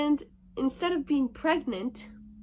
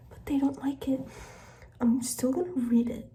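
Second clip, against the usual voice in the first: whisper. Real, not acted. Whispering past midnight at home.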